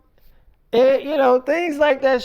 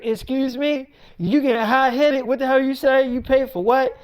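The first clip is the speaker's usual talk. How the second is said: raised, incredulous comeback; indignant mother; 3 semitones higher than usual. Retold or imitated. Mother answering daughter's claim she paid for the house, indignant. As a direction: challenge like an affronted mom.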